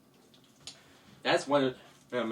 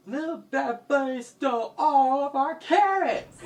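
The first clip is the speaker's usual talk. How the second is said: high, louder victim's wail; distressed complaint; 10 semitones higher, 5 dB louder than usual. Acted. Robbed villager reports theft to hero, high distressed complaint. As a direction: complain high and loud to the rescuer.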